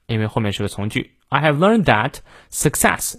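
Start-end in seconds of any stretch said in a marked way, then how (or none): 1.3-3.2 "success" given full stress after "that". Shown as a demonstration. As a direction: land firmly on "success". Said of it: "success要重读". (重读"success")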